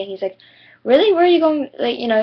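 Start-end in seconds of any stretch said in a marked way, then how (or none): 0.8-1.7 surprised question. Retold or imitated. Kid surprised at her school.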